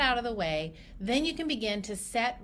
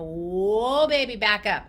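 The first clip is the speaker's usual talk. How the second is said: emphatic halt; 2 semitones lower, 6 dB louder, slower than usual. Acted. Clinician stopping a demanding new patient, emphatic. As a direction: rein someone in, loudly.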